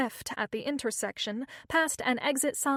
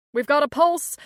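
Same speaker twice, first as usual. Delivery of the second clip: loud, higher shout of relief; happy shout; 4 semitones higher, 9 dB louder than usual. A narrator's reading. EMS tech announcing Jenny's pulse, happy shout. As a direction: shout the good news with a grin. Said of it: "shouted the E M S technician with a smile".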